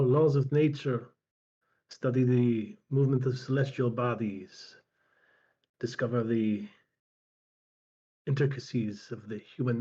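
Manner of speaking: put-on measured old scholar telling his life, lightly in character; lightly voiced old healer. Old healer recounts his apprenticeship and travels, measured, lightly voiced. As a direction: lightly play an aged healer reminiscing, with long pauses. Game master voices Strabo.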